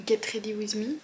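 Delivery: English words in a French speaker's English accent; lightly put-on English accent. Shown as a demonstration. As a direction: attempt an English accent on the title. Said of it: "avec un super accent anglais".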